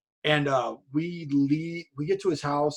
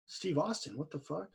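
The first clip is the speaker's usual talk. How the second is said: hushed, much softer stunned aside; under his breath; 14 dB quieter than usual. Retold or imitated. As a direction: mutter it to yourself in disbelief. Thinking to himself, stunned.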